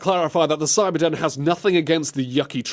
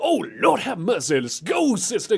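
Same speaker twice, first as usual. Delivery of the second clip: sassy cheer; 7 semitones higher than usual. Pretend.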